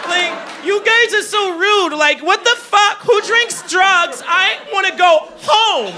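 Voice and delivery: put-on slow, high, whiny white-girl voice; white chick. Comic turned white chick scolds the party, high drawn-out whine. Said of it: "turned me to a white chick".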